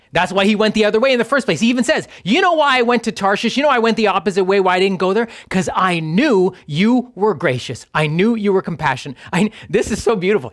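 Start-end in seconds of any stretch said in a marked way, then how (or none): 2.2-9.2 heated acted self-justification; rapid, indignant accusation in mild mock anger; angry. Jonah explaining to God why he fled, angrily. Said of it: "He's angry".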